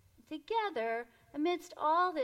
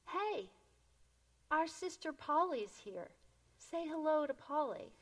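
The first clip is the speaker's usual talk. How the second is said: mild mock shout; 4 semitones higher than usual. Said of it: "he shouted over all this noise".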